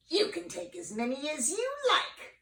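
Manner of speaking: high, sweet witch voice; high scheming witch voice; sly witch. Acted. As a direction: lure him in with a high sing-song. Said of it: "said the wicked witch".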